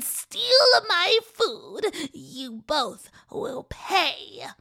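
a lightly voiced cruel old woman; menacing old witch. Witch threatening the trespassing twins, lightly menacing. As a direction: snarl at the trespassing children. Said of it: "the old woman said with bloodshot eyes".

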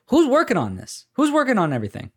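high-pitched mock bewilderment; baffled questioning. Baffled fan reacting to the studio's huge plans, incredulous. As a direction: ask it high and incredulous, voicing a puzzled onlooker.

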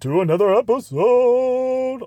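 high, slow hype welcome; hyped greeting. Acted. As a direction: greet the crew big. Energetic show greeting.

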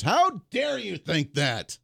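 slow, drawn-out fake indignation; mock outrage. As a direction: stretch it out like a wounded Viking.

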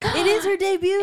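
gasping, excited and loud; gasp, then announce it. Real, not acted. Excited about debut.

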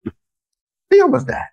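very high, loud disbelief; shocked outburst. Real, not acted. Host shocked at eggs in mac and cheese, very high. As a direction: blurt out in shock.

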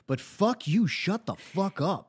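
high-pitched exasperated outburst; mock exasperation. Host imagines telling off Lydia, high mock exasperation. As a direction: act fed up, pitch jumping up.

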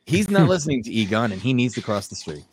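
animated fable narration with lightly acted dialogue; storyteller lightly playing both animals; storytelling. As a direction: tell an old fable, lilting through each exchange.

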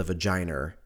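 vagina said with an -er ending, "va-jiner"; Louis C K pronunciation. Retold or imitated. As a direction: say vagina as "va-JY-ner". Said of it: "as Louis C K would say".

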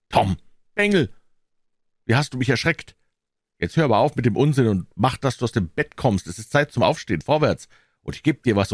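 exasperated aunt; scolding. Acted. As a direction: scold the rascal out of bed. Relieved aunt scolds the faker.

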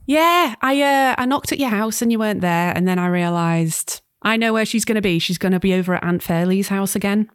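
put-on a light Scouse accent as the daughter Sam; chatty Liverpool daughter, accent worn lightly. Sam explains to her mum, light Scouse accent. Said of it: "I've forced you to do a Scouse accent".

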